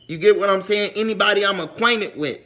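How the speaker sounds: ordinary talk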